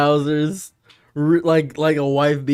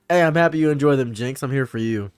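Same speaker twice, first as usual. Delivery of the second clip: cop voice; faster than usual. Retold or imitated. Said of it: "Starts speaking like that".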